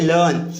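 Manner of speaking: "लर्न" as luhn, r left silent; falling "लर्न" with no r before n; silent-r pronunciation. Shown as a demonstration. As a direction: drop the r, lengthen the vowel in "लर्न". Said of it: "सीखने को क्या बोलते हैं?".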